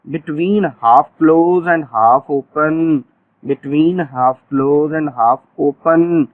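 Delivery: very slow, each word spaced out; stretched-out classroom dictation; slow drill phrase. Shown as a demonstration. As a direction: dictate it slowly for the class to repeat. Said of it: "teacher drills the phrase".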